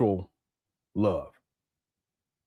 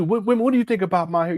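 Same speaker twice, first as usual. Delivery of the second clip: fast mock-girly question, pitched a bit up; lightly hammed-up vain voice; a hint of a man fishing for praise; mocking Umar; 5 semitones higher, faster than usual. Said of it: "you sound like a female".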